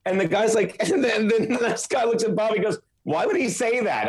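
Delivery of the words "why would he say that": retold puzzled question. Retold bystander questioning Bobby.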